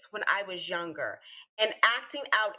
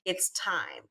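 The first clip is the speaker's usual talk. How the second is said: calm; 4 semitones lower than usual. Retold or imitated. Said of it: "her mom came in very calmly and was like".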